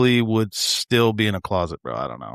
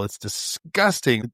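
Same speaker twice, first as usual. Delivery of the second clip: slow, drawn-out disgust; retold disgust; 4 dB quieter, much slower than usual. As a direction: drag out the word in mock revulsion. Retold disgust at detective eating apple.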